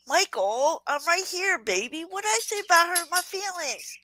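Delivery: put-on sweet teasing Southern belle accent. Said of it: "I'm using my Southern accent".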